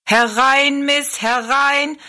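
high, loud, drawn-out barker's call; showman calling out. A narrator's reading. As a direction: call the crowd in, stretching the words. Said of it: "rief er Rosalie zu". (lauter, gedehnter Ausruf eines Schaustellers)

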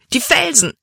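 „Felsen“ cried out very high and loud in panic; panicked cry. A narrator's reading. Drowning girl crying out about the rocks, panicked. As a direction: shout „Die Felsen!“ in terror. „Die Felsen“, dachte sie erneut.

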